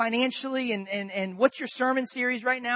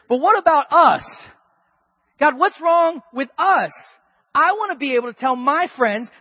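whiny plea; 3 semitones higher, 7 dB louder than usual. Retold or imitated. Pastor's envious inner plea.

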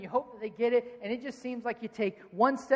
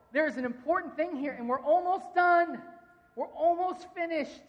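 defiant preaching; 5 semitones higher, 4 dB louder than usual. Acted. Nehemiah defiant on the wall.

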